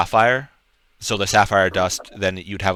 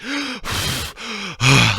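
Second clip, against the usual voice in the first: heavy panting; 12 semitones higher than usual. Acted. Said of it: "like, panting heavily".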